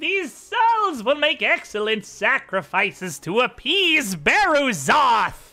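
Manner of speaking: very high, very loud, shrill, gleeful exultant cackle. Game master voices a foe during a fight, in a cackling gloating voice.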